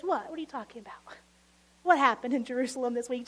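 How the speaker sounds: whispered mock innocence, then a quick question; feigned ignorance. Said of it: "This stranger says".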